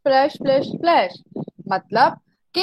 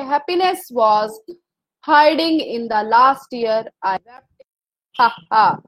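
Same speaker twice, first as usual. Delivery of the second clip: slow, drawn-out poem reading; poem recitation; 2 semitones lower, much slower than usual. Acted. Teacher reads the poem aloud to the class, slow and measured. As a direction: read each line slowly, as a poem.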